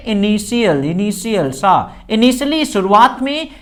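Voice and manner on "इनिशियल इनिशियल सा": "इनिशियल" said i-ni-si-yal, with no t; pronunciation demo. Shown as a demonstration. Teacher corrects the reading of initially, pronunciation demo. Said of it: "initially पढ़ते हैं इसको".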